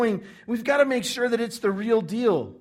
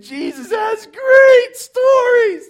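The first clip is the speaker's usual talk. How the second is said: much higher, much louder slow whooping cry; gleeful crowd cry; 13 semitones higher, 14 dB louder, much slower than usual. Acted. Crowd crying out for Jesus's story to punish the son, whooping. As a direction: savor every word like a hungry crowd.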